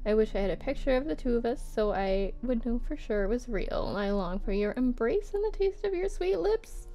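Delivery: measured, expressive reading; love letter read-aloud. Acted. Writer to Anne about missing her, lightly performed letter reading.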